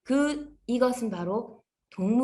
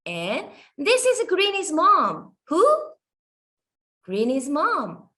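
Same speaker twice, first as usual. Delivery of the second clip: slow teacher talk; much slower than usual. Shown as a demonstration. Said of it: "teacher models slow English".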